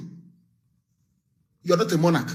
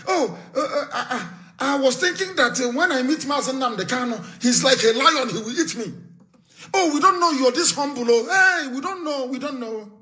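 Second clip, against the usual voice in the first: imitating surprised visitors; 3 semitones higher than usual. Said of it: "they say".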